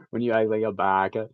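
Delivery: overacted anime dub. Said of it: "the TikTok audio where it's like".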